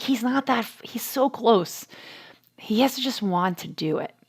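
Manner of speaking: soft murmur dropping to a whisper; hushed aside. Retold or imitated. Mom to husband about son, hushed murmur. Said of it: "I'm like".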